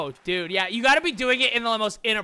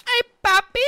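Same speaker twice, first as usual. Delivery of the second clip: shrill high-pitched yell; high squeal; 14 semitones higher, 8 dB louder than usual. Retold or imitated. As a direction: scream it up high. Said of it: "I'd start screaming".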